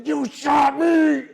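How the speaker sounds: slow, loud, high disbelieving cry; shocked cry. Retold or imitated. Shot man crying out to the shooter in shock. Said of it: "I say".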